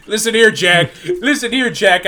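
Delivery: put-on loud, raspy old politician voice; Joe Biden impression. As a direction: growl it like an old senator. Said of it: "the way you do a Joe Biden accent".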